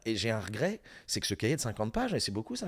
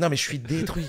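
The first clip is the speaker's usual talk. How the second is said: raspy smoker's voice, higher and louder; smoker's rasp; 6 semitones higher, 5 dB louder than usual. Retold or imitated. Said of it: "Tu le dis avec une voix de fumeur".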